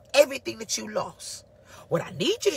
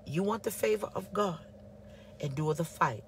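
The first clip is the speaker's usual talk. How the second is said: 1 God's quiet word; 6 dB quieter than usual. Retold or imitated. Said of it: "He said".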